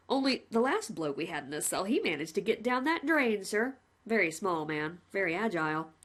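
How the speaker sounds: lightly voiced cheerful jailer; a hint of a chummy warden; a plain-spoken warder reporting to the condemned man, lightly voiced; polite prison warden. Warden speaks.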